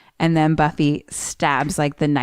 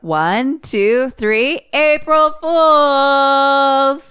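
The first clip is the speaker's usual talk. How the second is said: mock group cheer; 9 semitones higher, 6 dB louder, much slower than usual. Everyone reveals the April Fools prank, building to a shout. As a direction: count rising to a long, high shout.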